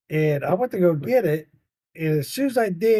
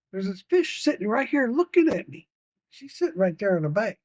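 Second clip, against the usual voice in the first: put-on higher, eager child voice; little girl; 5 semitones higher than usual. Granddaughter telling grandpa about the fish, eager child. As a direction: tell Papa about the fish.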